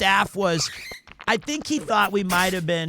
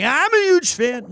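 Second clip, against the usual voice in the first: put-on drunk fangirling; 9 semitones higher, 7 dB louder than usual. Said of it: "And I was drunk".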